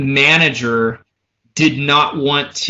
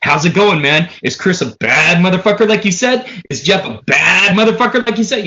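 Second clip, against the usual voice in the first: lightly voiced rocker on the phone; a hint of a hyped-up rock singer; 3 semitones higher than usual. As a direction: punch BAD in a light impersonation. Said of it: "I could hear the singer going".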